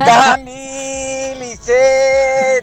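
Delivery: gushing, drawn-out hello; exuberant greeting. Real, not acted. Caller greeting his favorite hosts, exuberant drawn-out hello. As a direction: stretch the names out in a big hello.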